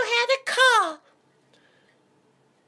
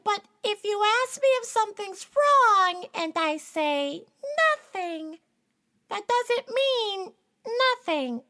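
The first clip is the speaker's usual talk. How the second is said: tearful; 3 semitones lower, 4 dB quieter than usual. Acted. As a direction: voice sinking into tears. Upset explaining nothing.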